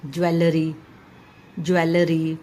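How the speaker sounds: ज्वेलरी said in three beats, "jwe-le-ree"; common mispronunciation of jewellery. Shown as a demonstration. Teacher quoting how most people say it, "jwe-le-ree". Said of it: "mostly ये pronounce होता है".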